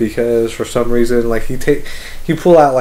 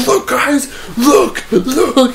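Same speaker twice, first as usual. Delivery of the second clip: put-on high-pitched kid-in-a-candy-store excitement; excited dad; 10 semitones higher, much slower than usual. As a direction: imitate dad eagerly calling everyone to look. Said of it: "He's, like, so fucking excited".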